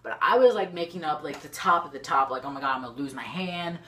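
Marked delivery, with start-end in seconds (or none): 2.4-3.8 mock panic, rushed. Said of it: "I was freaking out to the max".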